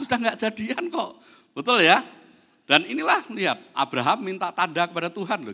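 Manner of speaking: ordinary delivery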